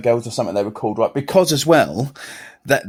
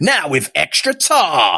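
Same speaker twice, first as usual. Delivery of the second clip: mock ad slogan; slower than usual.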